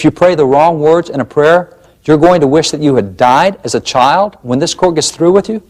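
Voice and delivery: mocking the judge's threat as if it can't be real; incredulous. Real, not acted. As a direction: repeat the threat back in disbelief, rising at the end. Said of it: "repeats the ruling, mocking it".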